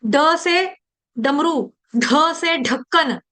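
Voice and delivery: plain ड in डमरू, breath-pushed ढ in ढक्कन; slow drill, ड then aspirated ढ; aspiration contrast. Shown as a demonstration. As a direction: throw out the ढ of ढक्कन after a clean ड. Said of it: "इनका उच्चारण डिवोटीज एक से एक जैसा ही कर लेते हैं".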